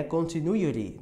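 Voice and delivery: CONTINUITY ending in "ri"; American flapped T. Shown as a demonstration. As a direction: soften the last T of CONTINUITY to a tap. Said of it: "americana ri". ("Continuity" com R brando no final)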